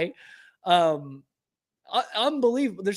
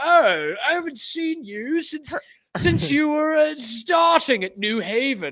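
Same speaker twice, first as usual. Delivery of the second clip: posh, snooty upper-class voice, high and raised; 7 semitones higher, 5 dB louder than usual. Retelling a movie party scene, mocking the rich old couple: imitating snobby rich people. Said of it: "that's what the ultra fucking people say".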